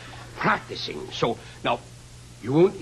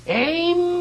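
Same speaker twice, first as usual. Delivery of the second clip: barked firing squad order; loud military command; shouted command; 13 semitones higher, 6 dB louder than usual. Acted. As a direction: yell the order to aim.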